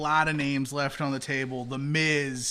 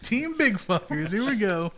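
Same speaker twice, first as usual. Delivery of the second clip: hyped up; 6 semitones higher than usual. Real, not acted. Hyped chant of team name.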